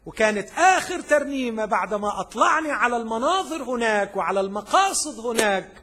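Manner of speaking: high, urgent pulpit voice; fervent preaching. Acted. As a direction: preach it with rising fervour.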